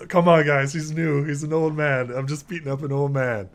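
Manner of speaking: lightly hammed-up showboating to your mates; playing to the crowd. Fighter to his chuckling men about his old opponent, showboating.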